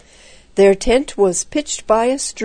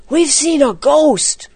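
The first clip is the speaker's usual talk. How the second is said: high, slow, dramatic alarm; alarmed announcement; 7 semitones higher, 4 dB louder than usual. A narrator's reading. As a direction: break frightening news, pitched high. Boys report a ghost in alarm.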